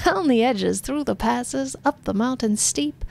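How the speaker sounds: hammed-up verse from the governor; pompous poem reading. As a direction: declaim it grandly. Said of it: "reads from his hollow palm".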